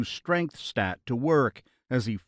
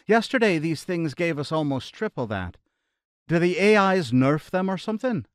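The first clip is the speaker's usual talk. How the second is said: faint Irish; 5 semitones higher than usual. Acted. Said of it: "slightly high-pitched voice ... faint Irish accent".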